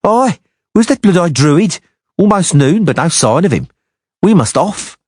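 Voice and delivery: impatient giant, voiced strangely; gruff giant mercenary. A narrator's reading. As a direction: play the impatient hulking sellsword.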